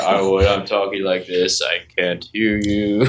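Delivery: slow, drawn-out talk down in normal register; mock low talker. Reenacting the telegram scene, the slow low part. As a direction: drop from the squeal and drag the words. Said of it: "while you talk low".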